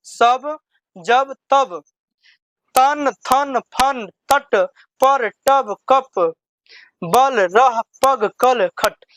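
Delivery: "बस" read straight as one whole word, no spelling; teacher reading the word list directly without spelling. Shown as a demonstration. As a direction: read each word straight off, slowly and clearly. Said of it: "direct पढ़ने का प्रयास".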